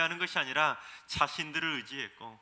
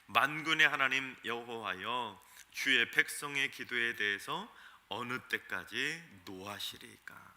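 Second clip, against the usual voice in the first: 느리고 장중하게 읽는 본문; 만군의 하나님 여호와여를 천천히 엄숙하게; 5 semitones lower, slower than usual. Shown as a demonstration. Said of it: "오늘 본문 사 절 봉독합니다". (느린 성경 낭독, 만군의를 무겁게 떨어뜨리며)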